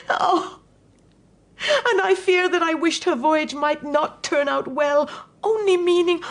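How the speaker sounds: crying. Acted. Mother confesses wishing daughter harm.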